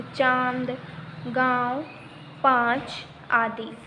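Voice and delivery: चांद, गांव, पाँच slowly, vowels through nose and throat; spaced-out examples चांद, गांव, पाँच with nasalized vowels; nasalized vowels demonstrated. Shown as a demonstration. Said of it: "वो आवाज़ नाक और गले से निकलती है".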